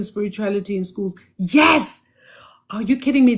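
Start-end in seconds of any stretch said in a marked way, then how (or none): 1.4-3.4 excited whisper. Real, not acted. Thrilled by viewer's question.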